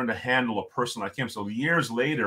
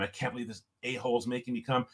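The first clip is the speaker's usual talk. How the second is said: griping; 9 dB quieter than usual. Retold or imitated. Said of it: "I'm just griping the whole time".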